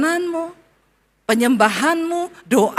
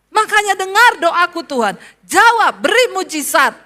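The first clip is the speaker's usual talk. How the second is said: loud, pressing demand to God; demanding prayer; 4 semitones higher, 4 dB louder than usual. Retold or imitated. Retold prayer to God, a loud demanding plea. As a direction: insist on an answer, pushing hard. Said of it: "saya tuntut Tuhan".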